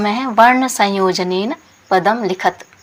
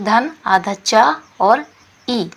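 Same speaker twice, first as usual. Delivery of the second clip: slow spelling out; much slower than usual. Shown as a demonstration. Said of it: "spelling out letter combinations".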